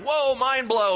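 be blown away by the insight; amazed whoa. Retold or imitated. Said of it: "you're like".

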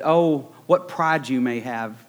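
lightly voiced wolf, slow and sly; Big Bad Wolf imitation. Preacher voicing Jesus to Peter as the sly wolf, slow. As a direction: drawl it slowly like the wolf in the fairy tale. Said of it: "like Red did in Little Red Riding Hood".

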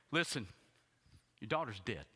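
bluntly stated, no softening; just blurt the news out flat. Retold or imitated. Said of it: "Now that sounds horrible".

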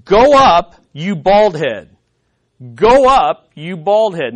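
a taunting youth yelling at the prophet; preacher voicing a jeering mob, loud taunt. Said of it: "they say to him".

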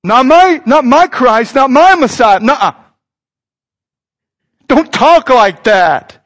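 mildly indignant, emphatic objection; mock rebuke. Peter rebuking Jesus over his talk of dying, mildly indignant. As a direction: protest firmly as an appalled disciple. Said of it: "rebukes Jesus".

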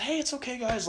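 high-pitched placating voice, acted out; imitating an airy "no problem" to friends; retold reassurance. Smoothing things over with the friends.

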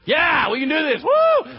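high, loud, pumped-up cheer ending in a whoop; excited whoop. Acted. Disciples thrilled to do miracles, cheering loud and high. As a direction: cheer like a fired-up team.

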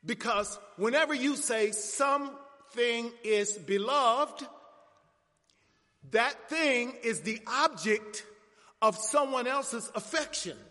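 slow, emphatic pulpit exposition; deliberate preaching. Real, not acted. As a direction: lay it out phrase by phrase for the congregation.

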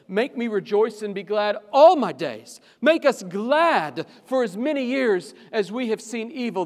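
loud, high psalm quote; proclaiming. Acted. Preacher quoting the psalmist's joyful plea. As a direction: ring it out as praise. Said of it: "the psalmist says".

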